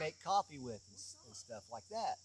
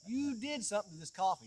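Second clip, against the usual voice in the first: retold exasperation; 6 semitones higher, 4 dB louder than usual. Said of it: "I'm like".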